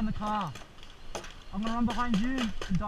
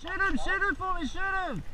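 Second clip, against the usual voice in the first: higher, pressing plea to shoot; urgent plea; 6 semitones higher than usual. Real, not acted. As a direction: beg a teammate urgently.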